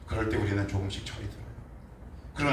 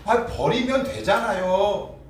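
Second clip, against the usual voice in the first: petulant; 8 semitones higher, 3 dB louder, much slower than usual. Retold or imitated. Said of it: "이렇게 해석하고 싶어요".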